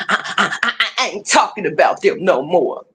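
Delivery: mocking stammer. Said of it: "how many videos have you made".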